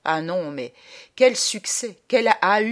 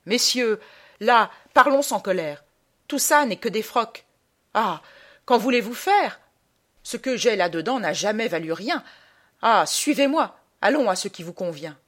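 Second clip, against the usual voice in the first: raised-pitch pleading for reason; coaxing appeal; 4 semitones higher, 5 dB louder than usual. Acted. Traveller trying sentiment on mourners, coaxing appeal. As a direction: talk them round, still worked up. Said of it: "les prendre avec du sentiment".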